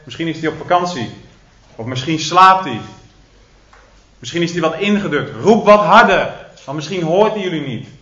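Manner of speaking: mocking. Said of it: "Elia begint te spotten".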